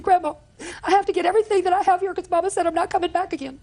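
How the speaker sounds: put-on high, tearful retelling of a child; crying granddaughter. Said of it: "and she was crying".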